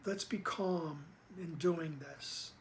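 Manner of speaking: slow, gently calming quote. Retold or imitated. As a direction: ease the words out slowly and calmly. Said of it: "this is why he says".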